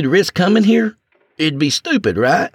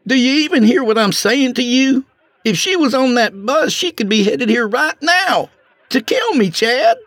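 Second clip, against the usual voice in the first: panicked pleading; 7 semitones higher than usual. Acted.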